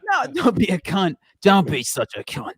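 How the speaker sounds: imitated British tough guy; lightly hammed-up British scolding; Billy Butcher. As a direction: correct them with a mock British accent. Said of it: "talking like Billy Butcher".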